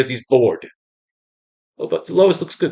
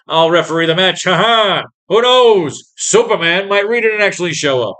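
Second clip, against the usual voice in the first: Lois Lane read in a higher, perkier voice; mock Lois voice; 5 semitones higher, 3 dB louder than usual. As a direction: play a cheeky reporter teasing the strongman. Reading Lois's comic dialogue aloud.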